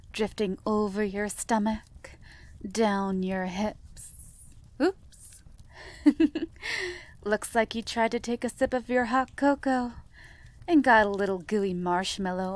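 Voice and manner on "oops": high giggle. Acted. Playful slip in roleplay.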